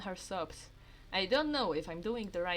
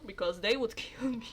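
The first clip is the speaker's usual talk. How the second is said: laughing whisper. Real, not acted. Player worried parents hear, whispering. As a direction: whisper it with a giggle. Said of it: "I hope my parents don't hear me".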